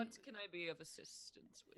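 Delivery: hushed servant's whisper. Acted. Servant appears behind the lady, whispering. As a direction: breathe it right behind her ear.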